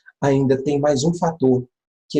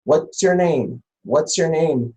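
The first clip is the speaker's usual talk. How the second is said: English model phrase; 3 semitones higher, slower than usual. Shown as a demonstration. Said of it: "Por exemplo".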